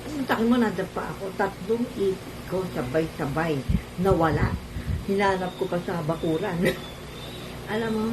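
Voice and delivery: talking through missing teeth; gap-toothed speech; missing front teeth. Real, not acted. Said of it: "bungi ako eh".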